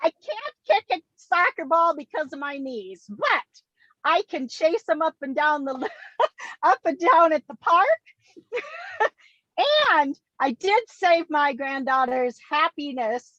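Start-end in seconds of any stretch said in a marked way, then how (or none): 4.0-7.9 1 laughing while talking. Real, not acted. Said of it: "laughs through the line". 8.5-9.1 1 high breathy laugh. Real, not acted. Laughing at own story.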